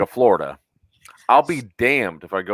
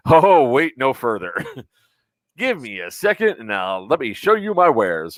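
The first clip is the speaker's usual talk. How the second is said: smarmy salesperson; 3 semitones higher than usual. Retold or imitated. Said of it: "my swarmy salesperson guy".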